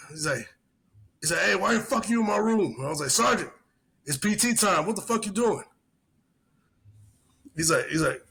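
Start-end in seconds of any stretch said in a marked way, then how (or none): 1.4-2.7 mock angry sergeant. Sergeant voiced in story. 3.1-5.6 put-on pitched well up, pressing the drunk sergeant; retelling how he urged his drunk sergeant to PT; urgent call. Retold urging drunk sergeant.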